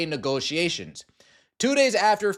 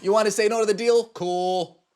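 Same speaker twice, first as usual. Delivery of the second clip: dismissive owners; 2 semitones higher than usual. Retold or imitated. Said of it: "That's what the owners are saying".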